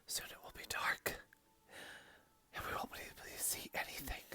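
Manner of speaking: whispering. Acted. Whispered storm vlog narration.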